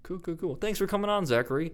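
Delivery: put-on high, formal old-fashioned host; old-timey voice. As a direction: play a stiff old-timey announcer. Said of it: "get out of that old-timey voice".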